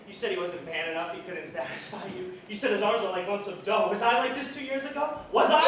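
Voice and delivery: loud, high, rising to a scream; loud furious outburst building to a scream; enraged shout. Acted. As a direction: lose control completely.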